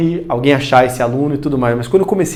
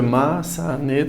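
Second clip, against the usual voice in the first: "maçaneta" split into syllables, softer; 6 dB quieter, slower than usual. Shown as a demonstration. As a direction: softly sound out "maçaneta" in blocks. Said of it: "Professor, quatro sílabas".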